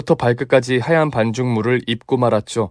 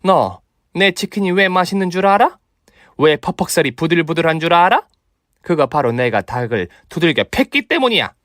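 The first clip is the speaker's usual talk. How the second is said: gloating kung fu master voice; brag, then threaten with relish; boastful martial master; 5 semitones higher than usual. Acted. Mother boasts, threatens fight. (허세 부리는 고수)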